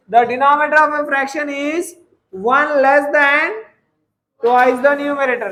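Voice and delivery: slow, word by word for note taking; teacher dictating a maths problem; slow dictation. Acted. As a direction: read it out slowly so students can copy.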